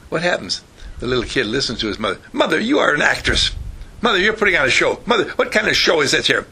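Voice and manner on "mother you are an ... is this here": put-on higher-pitched protesting child; acted indignant protest. Little kid objecting to his mother's show, acted indignation. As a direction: lightly play a boy objecting to his mother.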